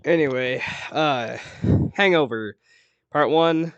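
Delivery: breathless after the stairs; puffing between words; out of breath. Real, not acted. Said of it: "Sorry, I'm out of breath".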